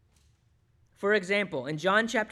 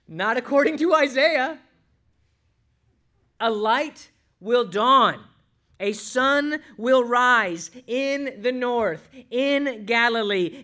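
proclaiming reply; 3 semitones higher, 8 dB louder, slower than usual. Acted. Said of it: "and we say".

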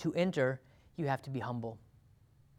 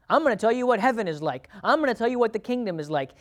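higher, louder, self-important announcing; mock know-it-all; 7 semitones higher, 5 dB louder than usual. Preacher mocking a self-appointed heaven expert, higher and louder. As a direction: boast like you have the inside scoop. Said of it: "someone talking like that".

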